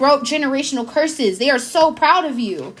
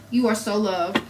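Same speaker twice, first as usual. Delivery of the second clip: softer, tender repeat of the affirmation; 3 semitones lower, 5 dB quieter than usual. Real, not acted. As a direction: say it gently, like a blessing. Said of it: "repeats the affirmation".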